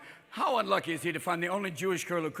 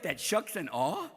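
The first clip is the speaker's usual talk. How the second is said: put-on Fargo accent; 3 semitones lower, 5 dB quieter, slower than usual. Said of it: "that Fargo accent".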